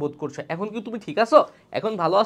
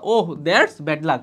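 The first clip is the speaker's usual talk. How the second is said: sympathetic model line; 4 semitones lower, much slower than usual. Shown as a demonstration. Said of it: "খারাপ একটা সংবাদ শুনেছে".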